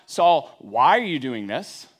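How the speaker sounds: scolding rebuke. Shown as a demonstration. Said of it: "It's not".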